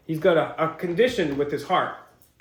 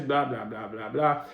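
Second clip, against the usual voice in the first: dismissive; 7 semitones lower, 6 dB quieter than usual. Shown as a demonstration. Skimming past details while reading.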